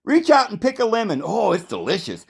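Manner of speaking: high, coaxing hypnotist voice; mock dreamy guide pointing out a lemon tree; drugged-up tour guide. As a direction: lure them into seeing things, high and sweet. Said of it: "They'll describe to you what you're seeing".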